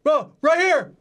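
high-pitched mock calling out; excited fan. Acts fans calling to Mo.

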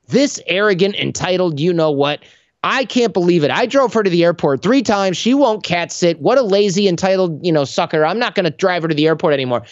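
petty seething thoughts, hammed up a little; indignant inner rant. Indignant inner rant about friend.

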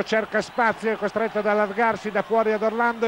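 rising excitement as the attack builds; live play-by-play. Real, not acted. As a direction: call the action live, quickening.

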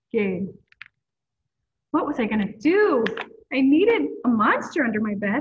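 lively storybook read-aloud voice; reading to children. A narrator's reading. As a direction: read it like story time for kids. Reading a picture book aloud.

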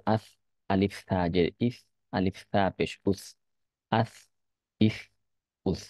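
slow, measured spelling drill; teacher's deliberate recitation for practice; letter-by-letter drill. Shown as a demonstration. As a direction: spell each letter separately, then give the joined syllable. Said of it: "প্রত্যেকটা হরফকে আলাদা করে".

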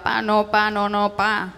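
"pa, no, pa" in choppy broken bits; broken stammer. Acted. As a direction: stutter out "no, no, pa" like a scared child.

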